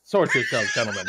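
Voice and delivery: barked command to the crew; shouting order. Acted.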